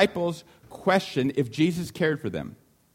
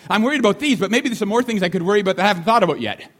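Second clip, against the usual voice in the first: louder, faster anxious chatter; mock worrying; 4 semitones higher, 5 dB louder, faster than usual. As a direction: rattle off worries like a restless mind. Voicing anxious inner thoughts.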